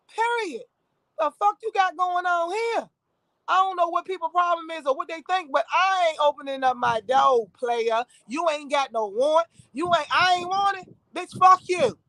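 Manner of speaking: heated, standing your ground; defiant retold anger. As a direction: tell them off through the door, defiantly. Retelling argument with police at door.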